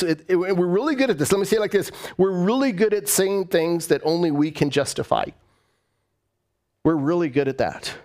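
ordinary talk, nothing marked

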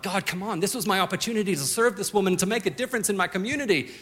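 half-joking complaint pushed out fast; frustrated prayer. Retold or imitated. Young man griping to God over a dead lawnmower, mock frustrated. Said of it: "frustrated conversations with God".

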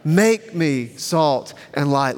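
slow recitation, MAKE leaned on; measured, spaced-out prayer for others to join; led group prayer. Shown as a demonstration. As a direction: lead the congregation word by word. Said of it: "Let's say it one more time".

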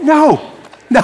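very high, chirpy refusal; a sweet, high-pitched no; cheerful no. Shown as a demonstration. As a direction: turn them down cheerfully. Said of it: "with a real cheerfulness".

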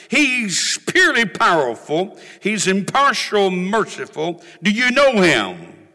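fervent imitation of a powerful preacher; fervent preaching. Preacher quoting a colorful colleague to the congregation, fervent. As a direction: preach it with mounting fervor. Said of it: "fervent in what he said, powerful".

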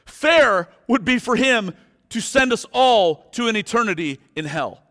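loud, high, slow thundering sermon; impassioned pulpit climax; full-force preaching. Real, not acted.

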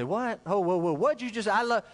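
imitated taken-aback listener; mock startled objection. Churchgoer interrupting the preacher's promise, in mock disbelief. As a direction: cut in as if shocked by the claim.

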